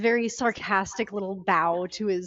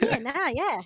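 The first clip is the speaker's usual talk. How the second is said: put-on Aussie accent, pitched up; Australian warm-up; 4 semitones higher than usual. Shown as a demonstration. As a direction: ease into broad Australian vowels. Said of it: "that's how you get into Australia".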